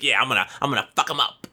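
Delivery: quick, cocky little goblin voice; hammed-up goblin bravado; goblin tough guy. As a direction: rattle it off like a tiny brawler. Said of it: "And he's, like".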